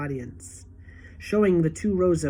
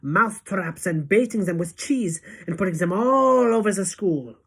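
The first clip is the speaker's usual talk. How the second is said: raised, relishing witch voice; gloating witch; 3 semitones higher than usual. Acted. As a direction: savour every snap of the traps. Witch describes her plot.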